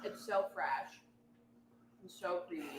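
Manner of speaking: talking while crunching; chewing between words; crunching chips. Real, not acted. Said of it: "Sorry, I'm crunching".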